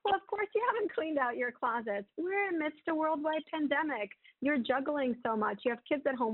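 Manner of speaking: lightly voiced kind friend, soothing and understanding; kind reassurance. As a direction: comfort a friend who is being hard on herself. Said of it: "we would say something really kind".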